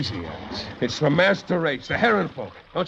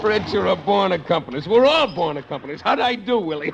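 mocking laughter; 4 semitones higher than usual.

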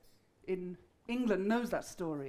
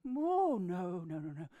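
frightened goat; 4 semitones lower, 5 dB quieter than usual. Acted. Goat pleads with troll.

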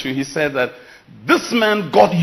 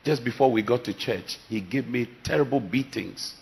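much softer and lower, hurt confession; soft grieving reply; 5 semitones lower, 7 dB quieter than usual. Retold or imitated. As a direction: barely voice it, the pain still fresh. Crying woman answering pastor.

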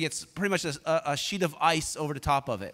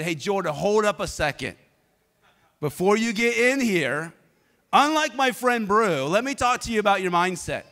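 intense; 3 semitones higher than usual. Retold or imitated. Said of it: "I was very intense".

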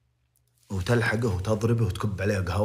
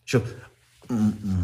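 ordinary talk, nothing marked

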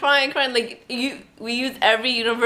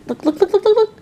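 excited calling; 11 semitones higher, 3 dB louder than usual. Real, not acted.

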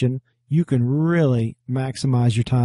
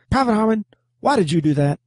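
high, barked drill sergeant demand; barking drill sergeant; 8 semitones higher than usual. Retold or imitated. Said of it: "my drill sergeant would come down on you like a ton of bricks".

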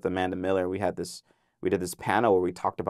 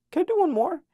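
eager request. Retold or imitated. Eager actor asks for another take.

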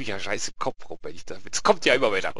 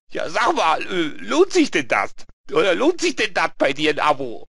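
high, loud, doubting question; Lee; 6 semitones higher, 5 dB louder than usual. Acted. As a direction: question the offer, pitched up. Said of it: "Und dann fragt er".

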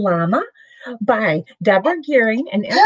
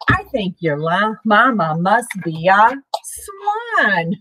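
lively storybook read-aloud; reading to children. Acted. Parent reading a picture book to the kids, lively. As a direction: read it bright and sing-song for little ones.

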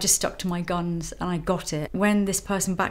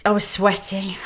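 breathy whisper, almost unvoiced; 3 dB louder than usual. Real, not acted. She relives bidding at auction in a whisper. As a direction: breathe it out like the panic is back.

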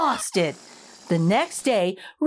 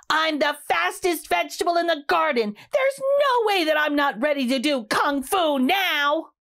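proud announcement; 4 semitones higher than usual. Acted. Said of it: "finally announced".

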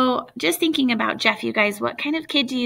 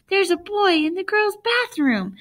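put-on screaming girl; 9 semitones higher than usual. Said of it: "the girl screamed after him".

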